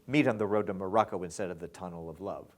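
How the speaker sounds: demo read. Shown as a demonstration. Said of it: "And then start with".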